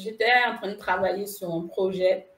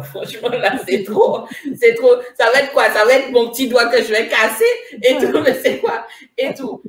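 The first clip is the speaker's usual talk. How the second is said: exasperated rant; 3 semitones higher, 7 dB louder than usual. Retold or imitated. Fed up with repeated bad luck.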